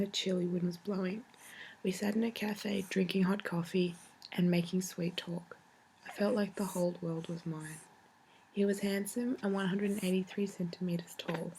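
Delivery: tender, steady letter reading; reading a letter aloud. Shown as a demonstration. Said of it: "I'll read you one".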